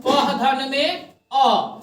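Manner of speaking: क धन में अ said very slowly, piece by piece; slow teacher's breakdown; slow spelled breakdown. Shown as a demonstration. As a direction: break it into parts slowly for the class. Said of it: "कि क को तोड़ो".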